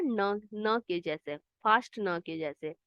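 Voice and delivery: slow, drawn-out न के जैसे; slow teacher demo; slow demonstration. Shown as a demonstration. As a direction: spell out the sound slowly for kids. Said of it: "इसका sound कैसे आता है".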